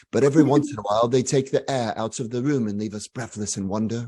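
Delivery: light mock British accent, Jony Ive style; a hint of Jony Ive's British lilt, not quite landed; imitating Jony Ive. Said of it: "sorry, I won't impersonate him again".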